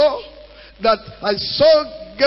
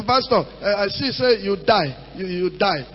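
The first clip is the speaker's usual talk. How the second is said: mock prophet; 3 semitones lower, 5 dB quieter than usual. Preacher mimics a prophet's vision.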